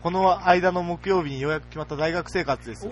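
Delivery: deliberate, projected radio mail read; reading out a message. Acted. Radio host reads a listener's news about university, read-aloud style.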